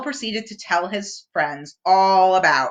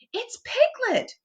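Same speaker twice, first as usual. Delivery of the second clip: Kanga voice; 3 dB quieter than usual. A narrator's reading.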